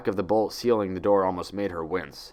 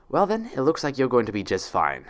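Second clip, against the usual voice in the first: happy; 4 semitones higher than usual. Acted. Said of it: "she declared happily".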